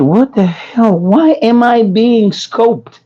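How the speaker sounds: mildly put-on indignation; retold indignant bafflement. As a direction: act out puzzled protest at being stared at. His reaction to stares, acted out.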